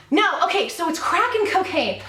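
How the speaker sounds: slightly winded after bending down; out of breath. Real, not acted. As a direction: talk a bit out of breath. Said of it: "Now I'm out of breath".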